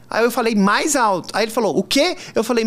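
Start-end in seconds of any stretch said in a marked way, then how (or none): 1.8-2.2 higher-pitched mock puzzled question; imitated uncomprehending "what?". Hotel worker to guest ordering breakfast, mock uncomprehending. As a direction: imitate someone who didn't catch it. Acts out man still not hearing.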